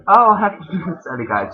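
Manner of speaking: high, loud laughing mock cheer; mock-happy greeting through a laugh; sarcastic cheer. Sarcastic cheer about finals week.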